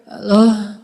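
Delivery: soft, drowsy Halo, like someone just waking up; sleepy soft voice. Shown as a demonstration. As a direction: breathe out Halo slowly and softly, as if half-asleep. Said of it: "dilembut-lembutin kayak orang lagi bangun tidur". (Halo yang lembut seperti baru bangun tidur)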